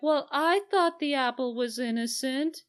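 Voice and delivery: a put-on innocent girl voice; mock innocent Ophelia. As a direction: play it wide-eyed and naive. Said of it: "she speaks up".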